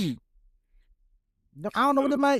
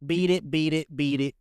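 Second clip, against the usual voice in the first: deadpan lyric reading; 5 semitones lower than usual. Pretend. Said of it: "But that ain't how you said it".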